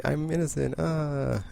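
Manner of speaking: high, mock-furious protest; mock angry outburst. Jean flipping out at her trial, high mock outburst. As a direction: yell it up high like a wronged prisoner. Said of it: "flipping out and getting angry".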